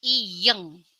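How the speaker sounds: iyeng said clearly; letter name demo. Shown as a demonstration. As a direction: model iyeng again for learners. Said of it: "mereka kasih nama".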